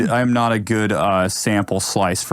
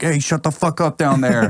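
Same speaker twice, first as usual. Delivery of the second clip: higher-pitched mock yell, New York Italian; half-hearted window holler; 5 semitones higher than usual. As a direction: imitate a New Yorker yelling from a window. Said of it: "New York Italian dude, like, yelling".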